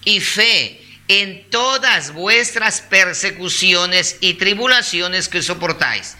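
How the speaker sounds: scripture read out slowly and deliberately; measured Bible reading; slow, calm reading. Real, not acted. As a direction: take the verse unhurriedly, phrase by phrase. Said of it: "es leerlo despacio, calmado".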